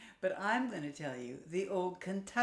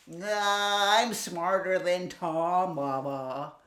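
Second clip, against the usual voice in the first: cocky piglet; 7 dB louder, slower than usual. Acted. Piglet brushes off mother.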